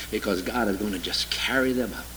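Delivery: sarcastic hushed whisper; a teasing whispered punchline; mock whisper. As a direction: whisper it as if a precious secret. Mock whisper about raptured Gentiles.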